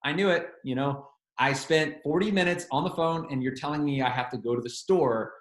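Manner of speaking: mildly irritated, sarcastic retort; retold irritation, dryly sarcastic. Preacher retelling his annoyance at a pointless support call, mildly irritated. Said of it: "So I'm feeling irritated".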